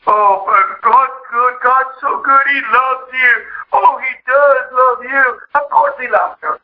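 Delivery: lightly hammed-up soothing churchgoer; mock consoling. Churchgoer comforting a weeping seeker at the altar, mock consoling. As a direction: gush reassurance, stretching the opening words. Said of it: "some lady was breaking some Lord".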